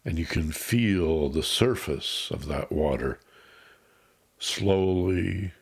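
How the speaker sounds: unhurried meditation guide with long pauses; guided meditation. Acted. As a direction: ease the listener into calm, phrase by phrase. Leads a grounding meditation.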